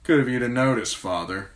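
words pushed through clenched teeth. A narrator's reading. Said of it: "he said through clenched teeth".

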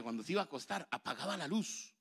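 normal talking voice

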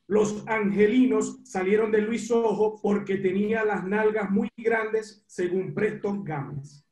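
measured read-aloud from a book. Real, not acted. Caller reads a book anecdote to the ex-player, measured reading. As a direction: read it out deliberately, phrase by phrase.

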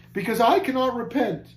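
high, anguished cry; deepest anguish. A narrator's reading. Caged man tells Christian why not, in anguish. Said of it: "cried he in deepest anguish".

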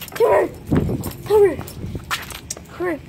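loud, high call to the dog. Real, not acted. Owner calling his dog to come back, loud and high. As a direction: call her over across the yard.

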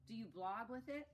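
high, loud storybook question; curious character. Acted.

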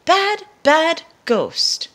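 slow, loud, high scolding call. Acted. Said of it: "he calls out".

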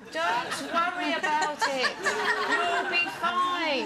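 slow, stretched-out reassuring words; drawn-out reassurance. Real, not acted. Panellist soothing a friend scared of ghosts, drawn out. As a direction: draw out each word to reassure.

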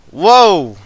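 surprised whoa. Real, not acted. Reacting to game's sudden noise.

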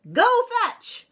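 high, loud teacher's bark; barked command. A narrator's reading. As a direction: bark it out as an order, pitched high. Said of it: "barked Missus Begalot".

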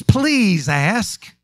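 slow, pleading weight on "please ask"; measured, emphatic "please ask". Shown as a demonstration. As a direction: stretch "please" to make "ask" a request. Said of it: "it's emphatic".

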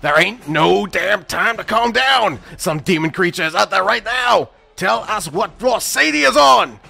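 high-pitched frantic shouting; angry, panicked high shout; furious yell. Acted. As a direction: yell desperately at the receptionist. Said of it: "Weston yelled".

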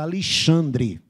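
slow Alexandre starting "Ali-", ending "dri"; carioca accent. Shown as a demonstration. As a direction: drawl Alexandre like a Rio native. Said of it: "como é que o carioca fala?".

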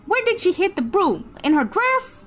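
animated southern twang; southern accent. Shown as a demonstration. Gamer exploring a creepy upstairs, southern accent. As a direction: exclaim your way through in a southern accent. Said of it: "I'll be doing a southern accent".

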